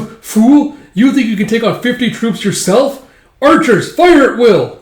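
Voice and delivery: high, loud furious order; commander yelling. Acted. Guard captain ordering archers against Guts, high furious yell. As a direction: scream the order to fire.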